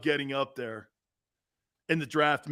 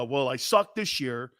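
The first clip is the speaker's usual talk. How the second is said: mock whiny quarterback; 3 semitones lower than usual. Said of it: "People with confidence don't go out there and go".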